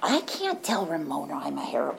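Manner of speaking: hushed, half-whispered worry; 1 quiet confession. Retold or imitated. Telling sponsors, whispering the fear. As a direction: whisper the secret you can't tell. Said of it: "it's like".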